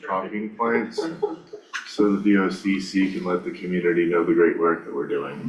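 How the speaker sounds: numb mouth from Novocaine, slurring; words slurred by a numb mouth. Real, not acted. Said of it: "sorry, it's the Novocaine".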